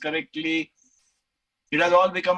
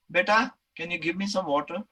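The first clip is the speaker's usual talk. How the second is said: asking nicely. Shown as a demonstration. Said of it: "if I ask nicely".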